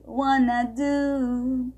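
"Wanna do" slowly, want to merged into wanna; wanna reduction. Shown as a demonstration. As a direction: drill "Wanna do" as one unit. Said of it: "Em inglês a gente pode falar wanna".

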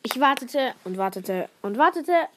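reading her frog story aloud. Acted. Girl reading her school story to the podcast listeners, storyteller voice. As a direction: tell it as the frog, storyteller style.

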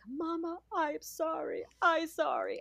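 put-on child's voice. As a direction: mimic her little son saying sorry.

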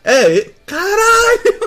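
laughing cry of joy; half laughing, half sobbing shout; screaming crying fan. Real, not acted. Overwhelmed by correct guess.

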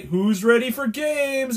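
high, drawn-out rallying question; imitated pep leader. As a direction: hype up the crew slowly. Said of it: "then he'd say".

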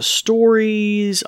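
normal talking voice

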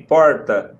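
put-on "Porta." with a São Paulo accent, the r tapped. Imitating a paulistano saying porta. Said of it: "aí ela disse assim".

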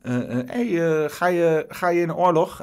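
high, mock call out of a car; imitating a man hollering from a car window; retold shout from a car. A man in a car hollers at a teen, mock shout. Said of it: "schreeuwde iemand uit de auto".

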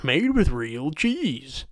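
slow, sarcastic reading of the label; mock slogan. Sarcastically reading the macaroni box slogan aloud. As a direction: drag it out like a dumb ad line.

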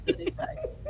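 high, soft laughing words. Real, not acted. Co-host teased for laughing at a friend's advice, laughing. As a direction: squeeze it out through held-back laughter. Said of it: "Stop laughing at me".

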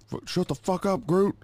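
high shouted snap at the dog; high mock yell at a barking dog. Yelling at the dog.

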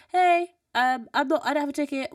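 high, loud call across a cinema; shouting over. Retold or imitated. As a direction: re-enact calling over to a worker. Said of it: "I literally shouted over".

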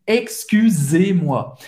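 Excusez-moi slow, the U with rounded lips on an I; French U in Excusez. Shown as a demonstration. Teacher shows the U of Excusez-moi slowly. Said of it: "Faz a boca do O e fala I".

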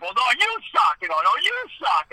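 YOU pitched high and punched; retort stressing YOU. Retold or imitated. Two colleagues bickering over the name, retort stressing YOU. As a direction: fire it back, leaning hard on YOU.

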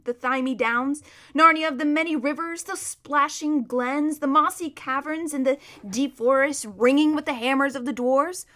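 lilting, lingering over each name; animated, wistful storybook horse; rhapsodic talking horse. Acted. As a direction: savour each image like a homesick horse.

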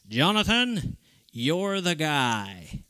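whispered news, slow and hushed. Retold or imitated. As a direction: breathe it like a secret, slowly. Principal calls with job offer.

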